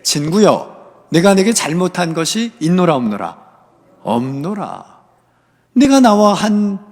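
stern, emphatic rebuke from the master; acted indignation, pressing each point; angry master. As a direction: answer a grumbling worker with firm authority. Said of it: "주인이 화를 내며 그들에게".

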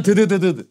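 stuttered rattle of dragging; dragging noise. Shown as a demonstration. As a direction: imitate something being dragged along. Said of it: "끌 때 약간". (끌리는 소리 흉내)

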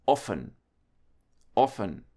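quick O before double F in offen; short O in offen. Shown as a demonstration. German teacher showing double consonants to learners, short O in offen. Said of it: "make the sound shorter, faster".

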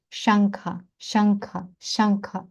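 Шангха with ng as in Ganga; velar nasal. Shown as a demonstration. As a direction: say Шангха with the nasal at the back of the mouth. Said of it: "так само тут".

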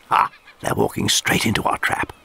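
gleeful whisper. Acted. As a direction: whisper from the ambush. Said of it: "whispered the lieutenant".

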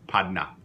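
padna said slowly as a model; Louisiana padna. Shown as a demonstration. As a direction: model padna for the class to repeat. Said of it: "Try it, padna".

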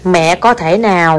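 very slow, each word laid out; feed the phrase word by word for a child to copy; slow dictation. Shown as a demonstration. Mother dictates a polite request, very slowly. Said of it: "repeats phrase for child".

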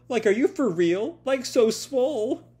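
put-on high, gushing party girl voice. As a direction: gush like a party girl, drawing out the last words. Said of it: "You are a party girl".

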